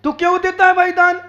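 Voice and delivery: insistent, scolding sermon delivery; reproachful preaching. Acted. Preacher voicing objections to someone giving alms, reproachful. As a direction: preach it as a string of challenges.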